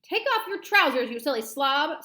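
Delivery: high, loud start, easing off; exasperated yell that tails down; shouted order. Acted. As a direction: shout instructions at a panicking man. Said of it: "someone shouted".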